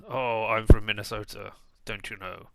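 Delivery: a half-hearted Minnesotan accent. Shown as a demonstration. Streamer tries a quick Minnesotan accent for viewers. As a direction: try a light Minnesotan accent, then give up. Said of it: "I can attempt to do one".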